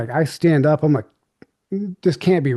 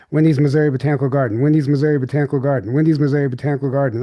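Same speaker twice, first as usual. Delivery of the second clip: fast flat machine-like chant; robot voice; faster than usual. Retold or imitated. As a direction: rattle it off like a machine. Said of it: "she started like a machine".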